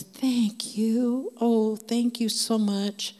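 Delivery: heartfelt thanks. Retold or imitated. Big guy thanks the woman who offered grace, gratefully. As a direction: act out relieved, touched thanks. Retold grateful reply to comfort.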